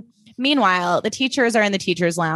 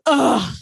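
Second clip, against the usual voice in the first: dramatic ugh; 4 semitones higher than usual. Retold or imitated. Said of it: "with this, like, dramatic eye roll".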